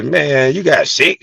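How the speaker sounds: high, loud teasing voice; mocking girlfriend. Girlfriend mocking him for getting sick, high loud teasing. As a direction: tease him like it's hilarious. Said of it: "She was".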